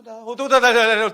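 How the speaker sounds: loud mock babble of tongues. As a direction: rattle off fake tongues loudly. 방언하는 사람 흉내. (방언 흉내를 크게 내며)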